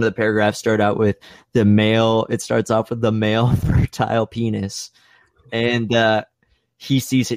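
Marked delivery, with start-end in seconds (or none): none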